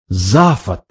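low, reproachful astonishment; disbelieving. A narrator's reading. Ford reacts to his cousin's behaviour, incredulous. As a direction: say the name in sheer disbelief. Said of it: "не в силах поверить, воскликнул Форд".

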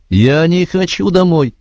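put-on a little boy close to tears; near tears. A narrator's reading. Joe begging the lieutenant to stay, near tears. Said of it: "Джо чуть не плакал".

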